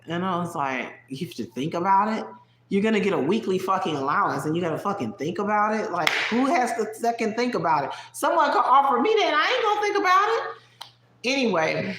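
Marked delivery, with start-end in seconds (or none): 1.1-2.2 "You have to think about it?" asked in disbelief, rising at the end; repeating her words back, incredulous. Retold or imitated. Incredulous retort to girlfriend. 2.7-10.4 rising higher and louder into a squeal; retelling his own exasperated rant at her; building outrage. Retold or imitated. Retold rant at girlfriend.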